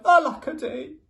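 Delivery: cried out. A narrator's reading. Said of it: "And he cried".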